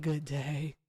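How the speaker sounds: mock curt dismissal. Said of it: "I said".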